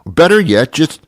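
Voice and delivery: high-pitched scolding building to breaking point; exasperated, building outburst. Acted. Rant builds toward telling him off.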